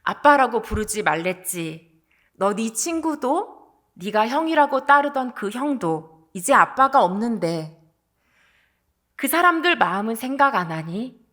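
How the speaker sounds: retold tearful reproach, lightly acted; understated, pained reproach to a son; tearful scolding. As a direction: scold through held-back sorrow. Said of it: "눈물을 흘리시면서".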